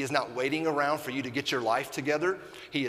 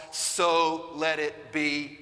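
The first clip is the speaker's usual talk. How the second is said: slow emphasis; 2 semitones higher, much slower than usual. Acted. Slow emphatic closing phrase.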